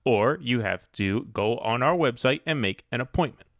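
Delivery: lightly imitated New York DMV clerk accent; proudly unhelpful, in a mock New York bureaucrat accent. Clerk refusing a caller over the phone, mock New York bureaucrat accent. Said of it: "That's how he sounds".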